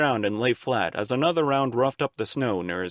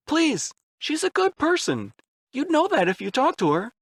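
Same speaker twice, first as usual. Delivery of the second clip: close to tears. A narrator's reading. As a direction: plead as if about to cry. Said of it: "sounded as if he might cry".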